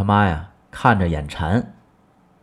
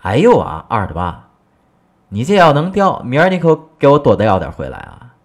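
high, loud happy exclaim; delighted wife; 4 semitones higher, 5 dB louder than usual. Acted. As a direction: coax him, thrilled. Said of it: "哎，高兴了".

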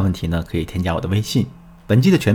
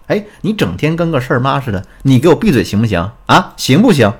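acted fed-up husband, getting louder; disgusted; 3 semitones higher, 4 dB louder than usual. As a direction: build to an irritated demand, as retold. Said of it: "带着满是厌恶的口吻对我说". (模仿丈夫厌恶地呵斥)

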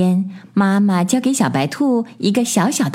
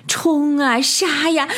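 high-pitched charge cry; mock battle yell, raised in pitch; 6 semitones higher, slower than usual. A narrator's reading. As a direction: burst in crying out a high war cry. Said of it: "一个黄不拉几的家伙大喊".

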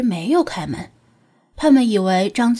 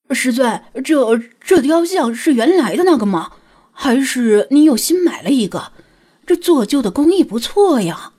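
stuttering, startled and louder; stammering; 2 semitones higher, 4 dB louder than usual. Acted. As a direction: trip over the first words in shock. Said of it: "结结巴巴地问道".

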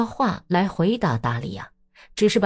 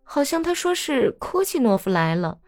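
put-on lightly raised, gossipy young woman; Daria's voice; 6 semitones higher than usual. Daria letting slip the husband's lie to Natalya, gossiping. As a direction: tell her the secret with sly relish.

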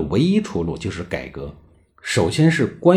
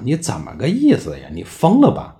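indignant; 5 semitones higher than usual. Acted. Acted indignant inner thought of minister.

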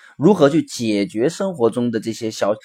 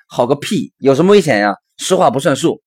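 put-on louder, indignant child's comeback; acted angry retort; 3 semitones higher, 5 dB louder than usual. Angry child answering the father's excuse, acted indignant retort. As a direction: throw it back crossly, rising in force.

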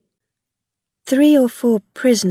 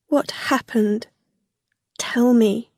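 higher, anxious plea; shocked plea; 3 semitones higher than usual. A narrator's reading. Rilla white-faced asking Gog, shocked. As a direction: ask anxiously, pitched up.

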